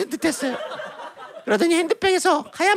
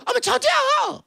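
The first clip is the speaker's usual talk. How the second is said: high, gushing squeal of agreement; delighted sister; 8 semitones higher, slower than usual. Acted. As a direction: melt with sudden delight. Sister delightedly returns the affection.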